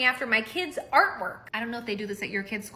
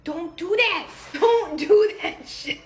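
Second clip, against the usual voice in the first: higher, louder, laughing scolding; 7 semitones higher, 6 dB louder, slower than usual. Real, not acted. Wife scolding husband for the board while laughing.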